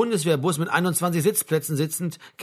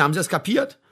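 firm, slightly raised question; stern demand; 3 semitones higher than usual. Acted. Sergeant checks that Ludwig has understood, sternly. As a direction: demand confirmation without shouting. First demand, before repeating it louder.

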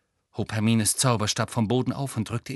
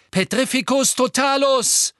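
loud, higher spell cry; a hurled incantation, louder and higher; shouted spell; 12 semitones higher, 6 dB louder than usual. Acted. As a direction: fire the curse out loud. Harry casts a spell.

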